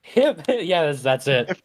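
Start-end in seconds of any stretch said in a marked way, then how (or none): 0.0-0.6 cheer. Acted. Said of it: "hip, hip, hooray with his fist".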